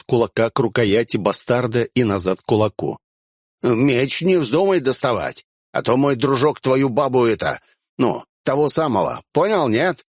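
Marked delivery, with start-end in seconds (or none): 3.6-10.0 threatening. Acted. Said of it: "пригрозил он".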